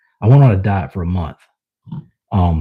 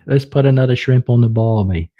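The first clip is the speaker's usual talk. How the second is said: bad Aussie accent; 3 semitones higher than usual. Shown as a demonstration. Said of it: "bad Aussie accent".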